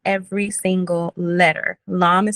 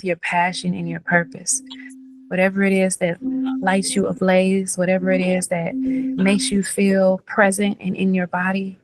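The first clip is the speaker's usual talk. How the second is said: guided meditation. Acted. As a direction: lull them into the feeling. Leads visualization meditation.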